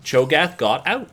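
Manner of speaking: slow Southern drawl on Cho'Gath; Southern accent. Shown as a demonstration. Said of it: "My southern accent is starting to come through".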